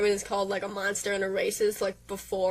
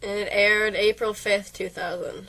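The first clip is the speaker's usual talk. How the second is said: sarcastic; slower than usual. Real, not acted. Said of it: "Really enthusiastic".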